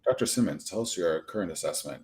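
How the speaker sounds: serious news reporter question. Retold or imitated. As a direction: mimic a stiff interviewer's question. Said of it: "your reporter, uh, question voice".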